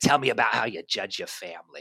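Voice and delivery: put-on New York accent in an older woman voice. Retelling what her therapist asked her, old New York Jewish accent. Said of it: "old, you know, like Jewish woman with a New York accent".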